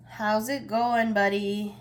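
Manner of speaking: singsong buddy, buddy, sliding down and fading; silly buddy voice. Pretend. Tarot reader goofing off to viewers in silly voice. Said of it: "Sorry, I'm losing it".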